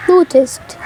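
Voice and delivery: ordinary delivery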